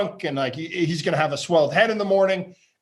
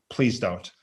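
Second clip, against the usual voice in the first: a soft, laughing mock plea, lower and quieter; 7 semitones lower, 4 dB quieter than usual. Buddy pleading with him not to jump up, laughing softly. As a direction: beg him off through a laugh. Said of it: "And he's like".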